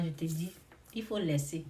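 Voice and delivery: quiet, gentle reply; soft voice. Shown as a demonstration. Showing how she answered someone gently, soft and calm. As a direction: say it softly, letting it go. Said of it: "je t'ai répondu doucement, avec une voix faible".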